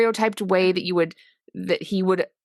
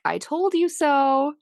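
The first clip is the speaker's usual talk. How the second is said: higher, drawn-out playful gloat; light-hearted I-told-you-so; 6 semitones higher, slower than usual. Retold or imitated. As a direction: lightly imitate a teasing "told you so", stretched out. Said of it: "put some lightness in it".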